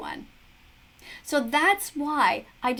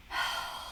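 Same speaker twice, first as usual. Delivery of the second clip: tense sigh; 10 dB quieter than usual. Real, not acted. Watching nerve-wracking rescue video.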